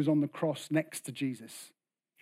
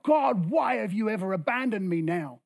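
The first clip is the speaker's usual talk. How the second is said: raised, acted cry to God; 4 semitones higher than usual. Abandoned Jesus calling to his Father, acted cry. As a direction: cry it out high, then let it fall. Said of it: "And so he cries out".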